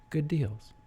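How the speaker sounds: playful put-on announcer-style aside; odd put-on voice. Host presenting the weekly deals in a silly voice. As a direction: slip into a silly voice briefly. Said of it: "What was that voice?".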